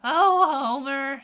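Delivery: loud, drawn-out cartoon wife; Marge Simpson. Shown as a demonstration. Streamer attempting a cartoon wife calling her husband, drawn-out impression. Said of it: "Marge Simpson".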